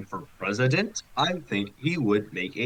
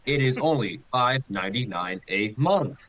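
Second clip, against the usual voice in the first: a whispered sales pitch; mock ad read. Pretending to be a stream bot pushing ads, whispered. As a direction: breathe the ad copy like a sneaky announcer. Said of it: "if that's how they hit you with ads".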